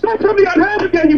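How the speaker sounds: high-pitched angry outburst; irate. Real, not acted. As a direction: cut him off in real anger. Customer loses his temper.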